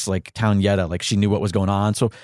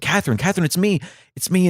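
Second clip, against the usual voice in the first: almost in tears; 9 semitones higher, faster than usual. Retold or imitated. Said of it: "my mom is almost in tears".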